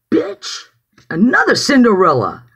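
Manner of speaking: high-pitched dismissive jab; scornful retort. Retold or imitated. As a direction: toss it out high, as a retold comeback. Retold scornful reply to psychiatrist.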